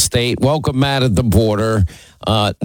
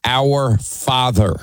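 slow, solemn Our Father with weight on Our; slow reverent quote; much slower than usual. Shown as a demonstration. Host tells caller to reread the prayer, slow solemn. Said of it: "learn the Lord's Prayer".

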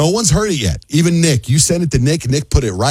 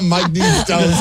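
laughing; 3 semitones higher, much slower than usual. Real, not acted. Host repeats funny quote laughing.

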